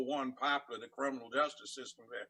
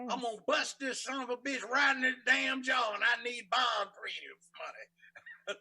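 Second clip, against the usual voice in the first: angry yelling; 8 semitones higher than usual. Retold or imitated. Retold threat, loud and high.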